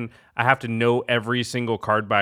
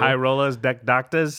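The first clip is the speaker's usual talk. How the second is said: playful shout; 2 semitones higher, slower than usual. Acted. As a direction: shout it like a catchphrase.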